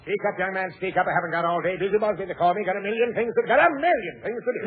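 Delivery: lightly voiced busy old editor; a hint of a flustered old man; shaky old voice. Busby introduced as busiest man.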